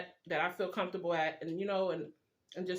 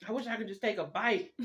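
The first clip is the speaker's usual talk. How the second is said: excited; 4 semitones higher than usual. Retold or imitated. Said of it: "I'm like".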